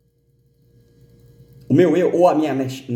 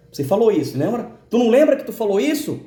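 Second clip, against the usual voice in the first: accusing voice; 8 semitones higher than usual. Retold or imitated. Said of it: "A voz vinha mais forte".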